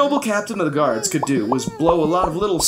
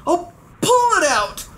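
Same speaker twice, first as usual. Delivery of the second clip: yelled; 12 semitones higher than usual. A narrator's reading. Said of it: "he yelled".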